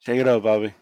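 half-hearted, worn-out impression attempt; Trump. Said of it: "Fucking voice sucks for Trump right now".

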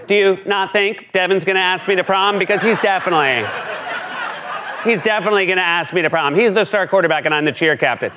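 put-on giggly teen gossip at her locker; gossipy teen. Mocking Kellyanne as a gossipy teen at her locker. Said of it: "like a gossipy teen at her locker".

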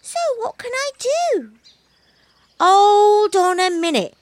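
a little cat suddenly unsure; worried kitten. Acted. Kitten asks monkey.

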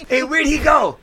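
mock calling out.

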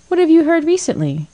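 pitched high and eager, pressing for gossip; pry for the news, curiosity winning; demanding. A narrator's reading. Gloria presses Muriel for gossip, high demanding voice. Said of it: "demanded Gloria".

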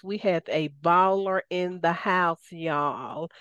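playful Southern slang delivery; light Southern accent, falling off on y'all. Shown as a demonstration. Host hyping her expert guest to listeners, light Southern accent. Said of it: "That's my southern accent".

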